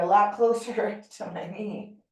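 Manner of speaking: small real laugh breaking into the words; amused at oneself, laughing briefly mid-sentence. Real, not acted. Yoga teacher admitting her own tightness to class, laughing. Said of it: "I'm laughing because".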